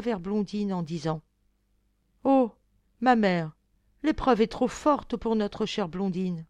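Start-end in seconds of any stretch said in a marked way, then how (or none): 2.2-6.4 louder anguished plea; distressed prince. Acted. Prince begs his mother to spare Blondine, louder. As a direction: cry out to your mother in alarm.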